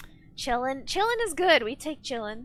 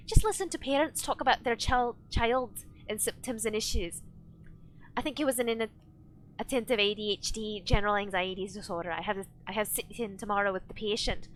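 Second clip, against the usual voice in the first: reading aloud in a half-hearted Scottish accent; crappy Scottish accent; 3 semitones lower, 3 dB quieter than usual. Shown as a demonstration. Streamer reading chat on request, crappy Scottish accent. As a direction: attempt a bad Scottish accent, fairly low-key. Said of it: "read chat in a crappy Scottish accent".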